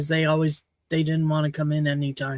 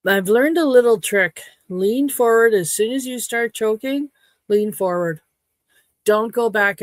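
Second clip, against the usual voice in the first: emphatic advice; 4 semitones higher, 5 dB louder than usual. Shown as a demonstration. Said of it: "teaching her choking trick".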